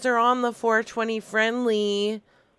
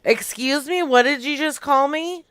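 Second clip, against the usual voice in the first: offended; 3 semitones higher than usual. Acted. Offended customer confronting clerk.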